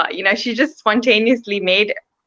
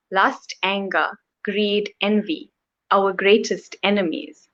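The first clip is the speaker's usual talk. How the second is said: poem reading. Acted. Poet reading her poem about Lord Chaitanya, measured recitation. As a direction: read it line by line, with pauses after phrases.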